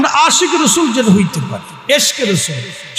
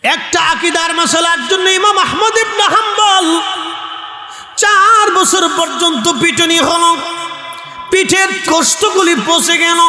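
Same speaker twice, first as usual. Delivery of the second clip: melodic preaching. Acted. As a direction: intone the martyr's tale with long-held line endings. Preacher tells the imam's ordeal. (সুর করে ওয়াজ)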